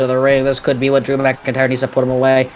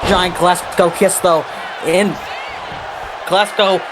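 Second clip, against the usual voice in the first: raised, slow count with rising energy; excited play-by-play; 5 semitones higher, slower than usual. Real, not acted. Commentator calling a big move and pinfall, excited. Calling a near-fall in wrestling match.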